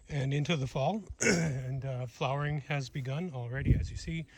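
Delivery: muffled through a bug jacket net. Real, not acted. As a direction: voice muffled by netting. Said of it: "if I sound a little bit muffled to you".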